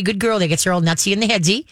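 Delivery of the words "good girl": excited praise. Retold or imitated. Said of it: "you're not gonna say".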